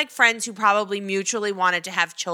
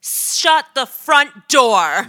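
stunned disbelief; 7 dB louder, much slower than usual. Real, not acted. Stunned at Meghan Markle news.

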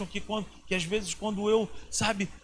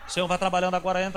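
rushed prayer; 6 dB louder, much faster than usual. Retold or imitated. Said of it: "parece até narração de futebol".

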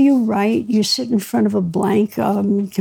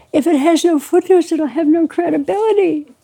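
higher-pitched retold wail; mock tearful protest; 6 semitones higher than usual. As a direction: imitate a tearful, pleading objection. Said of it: "I'm crying".

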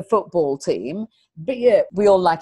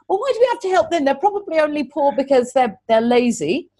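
high, dismissive mock teacher voice; sneering teacher; 6 semitones higher than usual. Teacher complaining about helping poor kids, mock sneering. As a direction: imitate a snide colleague's complaint. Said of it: "who had said".

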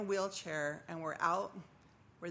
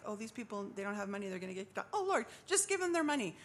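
put-on old way of praying; 2 semitones higher, faster than usual.

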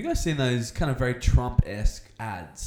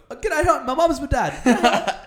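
high and louder, slowing through giggles; laughing fake greeting; 12 semitones higher, 5 dB louder, slower than usual. Hiker greets a stranger with nonsense, laughing and high. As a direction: squeak out a cheery hello while cracking up. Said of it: "I'm like".

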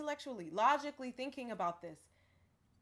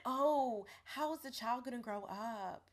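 lightly put-on proper speaker; mock proper voice; slower than usual. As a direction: mimic them in a slightly too-proper voice. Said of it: "they don't say it like that".

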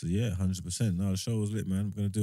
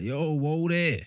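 retold; 6 semitones higher, much slower than usual. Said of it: "he's like".

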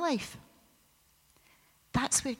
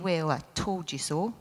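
a lightly voiced stern God, lower; mild mock told-you-so scolding in a lower voice; 3 semitones lower than usual. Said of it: "a big stern voice saying".

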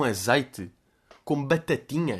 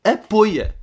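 retold yell; 7 semitones higher, 6 dB louder than usual.

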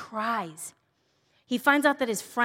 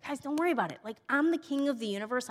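higher-pitched, breezy mock reassurance; casual reassurance; 5 semitones higher, faster than usual. Speaker imagining what Jesus could have said, casual reassurance. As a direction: brush off the worry, imagining Jesus's words.

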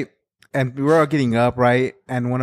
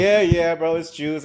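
humouring agreement. Retold or imitated. Schoolmates humouring the boy with wet pants, mock agreement. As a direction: go along with him without believing it.

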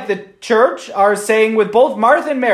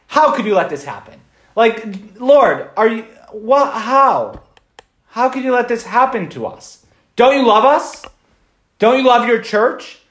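pleading lament; 4 semitones higher than usual. Pretend. Imagined plea to the Lord.

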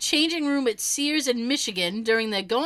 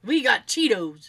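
hillbilly voice; 2 semitones lower than usual. Pretend. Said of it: "that just sounds like".

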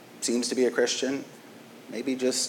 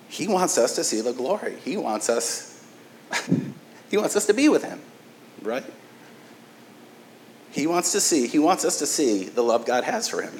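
choked-up joy breaking into a laugh, pitch leaping high; overcome with emotion; 4 semitones higher than usual. Real, not acted. Pastor moved by Jesus wanting us with him, emotional. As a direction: let the wonder overwhelm you mid-sentence. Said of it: "I don't know why I'm so emotional".

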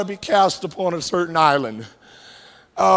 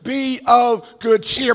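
proclaimed; 2 semitones higher, slower than usual. Shown as a demonstration. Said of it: "And yet he says it".

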